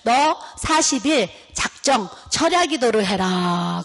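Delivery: slow, measured divine command, lightly voiced; voice of 하나님. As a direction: hand down the order slowly, stretching the ending. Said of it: "하나님의 음성이 또 들리기를".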